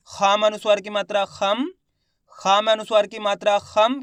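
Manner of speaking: rising drill with a half m ending "खम"; spelling-out demonstration. Shown as a demonstration. Teacher showing students the next word, spelling-out demonstration. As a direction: spell letter and sign, rising onto "खम" closed on m. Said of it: "इसका उच्चारण किस प्रकार से करेंगे".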